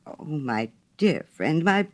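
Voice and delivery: slow, earnest plea to a friend; heartfelt cry. Acted. Hans assuring the miller he can have every flower, slow heartfelt cry. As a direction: draw out each word, meaning it. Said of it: "cried little Hans".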